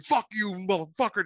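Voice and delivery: high mock yell, no real volume; held-back imitation of screaming; retold scream. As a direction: imitate a parting scream without full force. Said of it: "like, screaming".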